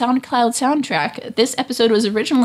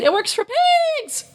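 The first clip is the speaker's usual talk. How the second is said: higher-pitched shout, breaking off before the last word; loud mock yell. Shown as a demonstration. Host redoing the cryptogram line for effect, loud yell. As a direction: blurt it out as a big strained yell. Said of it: "That was loud".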